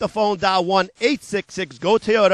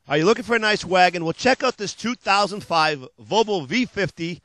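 hard-sell ad read; 2 semitones lower than usual. Acted. Car dealer pitching used cars to TV viewers, hard-sell ad voice. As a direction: sell it like a late-night car ad.

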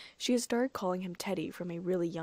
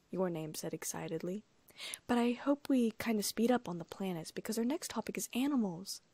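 put-on a slightly childlike, bouncy read; lightly voiced young girl. Little girl telling the gardener about school, eager and bright.

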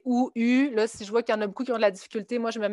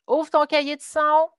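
higher, louder teacher instruction; classroom command; 6 semitones higher, 4 dB louder than usual. Retold or imitated. Teacher telling students to open their sound books, firm and raised.

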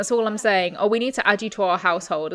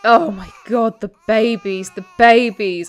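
panicked shout; 5 dB louder than usual. Real, not acted. Panicked about babies.

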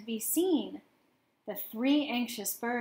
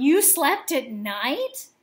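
gasped; 3 semitones higher, 7 dB louder, slower than usual. A narrator's reading. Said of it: "gasped another".

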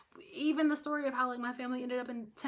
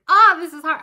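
loud, high, hammed-up complaint; mock whiny wail; 8 semitones higher, 22 dB louder than usual. Telling viewers it's okay to complain, mock wail. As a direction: wail it like a dramatic baby. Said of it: "You can be like".

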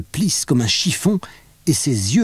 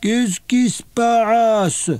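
groggy grumble; 10 semitones higher, much slower than usual. A narrator's reading. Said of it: "Elle grogne".

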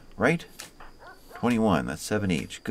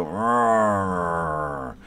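mock roar; 4 dB louder than usual. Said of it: "and they're all gonna go".

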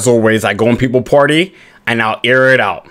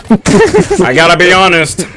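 put-on voice; 5 semitones higher, slower than usual. Put-on voice then plain repeat.

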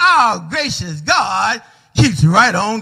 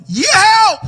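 yelling for help; 8 semitones higher than usual. Acted. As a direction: shout up desperately, then hurry the question. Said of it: "Keith yelled".

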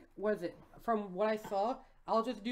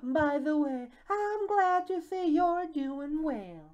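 higher, measured polite voice; mayor character; 4 semitones higher than usual. Acted. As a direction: play the mayor politely greeting an acquaintance. Voices mayor addressing the fox.

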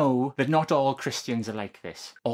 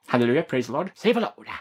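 preacher exclamation; faster than usual. Acted. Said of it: "I'm doing my best preacher voice here".

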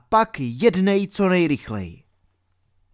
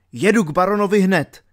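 fast, raised, louder declaration; urgent resolve; 4 semitones higher, 6 dB louder, faster than usual. A narrator's reading. Alan resolves to confront the baron at once, urgent resolve. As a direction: fire it out with determination.

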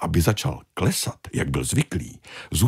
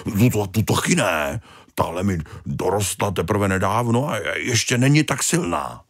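fussy Tony; 3 semitones higher than usual. Acted. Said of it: "Tony refuses again".

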